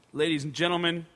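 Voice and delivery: loud, booming arena announcement; stage announcer. Retold or imitated. Comedian posing as band staff addresses the crowd, announcer voice. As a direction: address a stadium crowd with authority.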